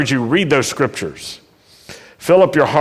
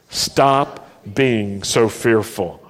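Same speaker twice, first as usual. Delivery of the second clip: slow, for repeating back; 4 semitones lower, slower than usual. Shown as a demonstration. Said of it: "Say that with me".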